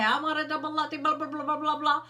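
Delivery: breezy Starbucks regular, mildly hammed up; mock coffee order. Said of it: "you say".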